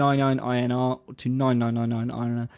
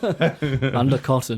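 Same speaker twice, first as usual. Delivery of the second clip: laughing, slow; much slower than usual. Real, not acted.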